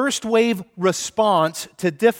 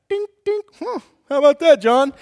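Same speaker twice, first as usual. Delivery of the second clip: boastful Peter; 7 semitones higher, 4 dB louder than usual. Retold or imitated. Peter boasting mid-walk.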